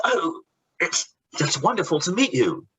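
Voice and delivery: gushing. Retold or imitated. Acted actor gushing at artist.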